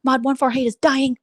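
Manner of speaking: hammed-up indignant fan; mock outrage. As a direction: act scandalised on their behalf. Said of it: "they go".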